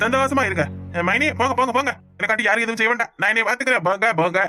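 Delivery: tipsy, aggrieved rant at the family; drunken ranting. Acted. Drunk son sending the whole family away, drunken ranting. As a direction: rant as if you'd had too much to drink. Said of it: "இவன் குடிச்சிட்டு வந்து இந்த மாதிரி எல்லாம் பேசுவானா".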